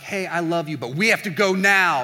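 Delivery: acted impatience, pushing to leave; impatient partner. Impatient boyfriend or girlfriend to partner, mock urgent.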